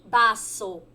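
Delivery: baço said as Spanish vaso, with b and s; Spanish pronunciation. Shown as a demonstration. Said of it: "Copo em espanhol se fala". (baço pronunciado como o espanhol vaso)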